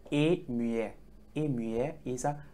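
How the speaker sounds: A muet said in French, "uh mew-eh"; French term. Shown as a demonstration. Teacher naming the silent letter, A muet said in French. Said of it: "We call it in French".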